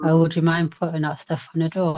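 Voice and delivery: even, gentle ask; calm polite ask to a messy friend; calm request. Retold or imitated. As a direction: ask her nicely, no edge. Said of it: "And I say it really calmly".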